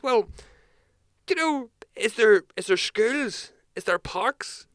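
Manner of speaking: put-on high, loud rambling drunk questions; drunk punter. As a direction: pitch it up and slur through the list like a rubbered regular. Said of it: "he goes".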